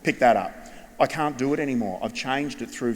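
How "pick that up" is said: louder, clipped order, falling on that; curt command. Shown as a demonstration. Teacher to student dropping rubbish, curt louder order. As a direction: snap it like a fed-up teacher. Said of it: "what would we say normally?".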